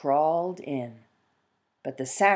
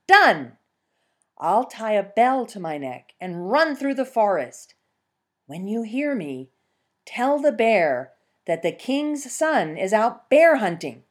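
higher, brisk scheming fox; eager fox; 5 semitones higher, 4 dB louder than usual. Acted. Fox eagerly explaining her trick to the peasant. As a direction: lay out the plan with relish.

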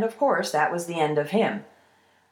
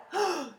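sharp high intake of breath; alarmed gasp; 10 semitones higher, 6 dB quieter than usual. Acted. Troll hears his well is threatened, alarmed gasp.

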